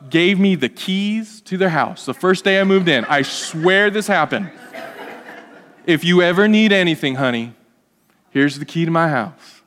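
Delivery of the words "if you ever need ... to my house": imitating a Southern neighbor lady; southern accent. Neighbor welcoming newcomers, in a light Southern accent. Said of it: "with a southern accent".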